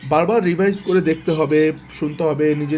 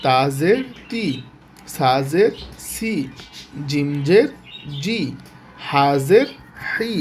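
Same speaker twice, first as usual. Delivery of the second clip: drilled letter recitation; slower than usual. Shown as a demonstration. Teacher drilling students through every letter with জের, chanting. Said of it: "প্রত্যেকটা অক্ষরে এইভাবে হবে".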